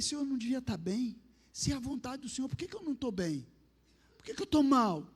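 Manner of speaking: retold anguished plea, questioning God aloud. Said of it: "comecei a falar alto assim no quarto". (questionamento angustiado em voz alta)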